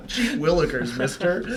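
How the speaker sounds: put-on high, laughing gee-whiz kid voice; wholesome 1950s kid. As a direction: play an innocent old-timey boy. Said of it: "You know what I mean?".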